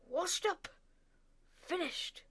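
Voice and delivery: high, loud furious shout. A narrator's reading. Father ranting about his son, furious shout. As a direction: yell it in disgust.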